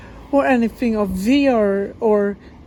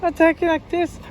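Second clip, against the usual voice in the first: higher-pitched demo of frantic talk; demonstrating agitated talk; 6 semitones higher than usual. Shown as a demonstration. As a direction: talk higher, showing how it sounds. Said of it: "you could sometimes talking like this".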